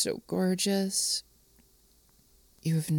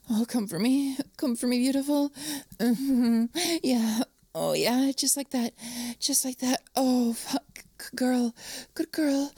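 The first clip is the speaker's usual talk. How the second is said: higher, breathless urging; urgent encouragement; 5 semitones higher than usual. Acted. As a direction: urge a lover on in rising excitement. Urging partner on at climax.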